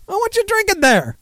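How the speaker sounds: high, put-on redneck voice asking a buddy; hammed-up good ol' boy; mock southern drinker. Mocking southern friends, lightly voiced bar banter.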